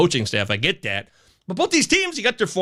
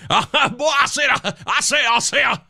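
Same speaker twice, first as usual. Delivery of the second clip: laughing; 7 semitones higher than usual. Real, not acted. Laughing at own flub.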